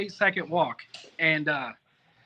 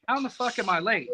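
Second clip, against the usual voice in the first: mildly indignant, pitched up; retold pissed-off protest; 4 semitones higher than usual. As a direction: reenact your annoyed disbelief. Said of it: "I was pissed because I'm like".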